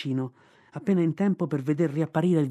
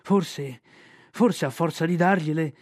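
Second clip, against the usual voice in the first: despairing bear. Acted. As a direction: wail your misery as the bear. Bear's despairing lament.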